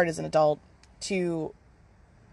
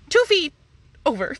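put-on kids' reply; 8 semitones higher than usual. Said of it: "And they're like".

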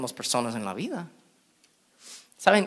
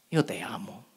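lower, softer tender words; 6 semitones lower, 9 dB quieter than usual. Retold or imitated. Jesus telling the found sheep he loves it, soft and tender. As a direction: say it softly, lovingly. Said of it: "Lo primero".

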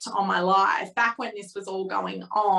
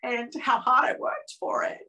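getting emotional; 3 semitones higher than usual. Real, not acted. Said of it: "I'm getting quite emotional".

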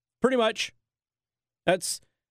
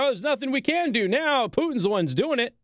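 higher, airy dismissive put-on; mocking impression; 6 semitones higher than usual. Host mocks Biden's answer to the reporter, airy and higher. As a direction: shrug it off mockingly.

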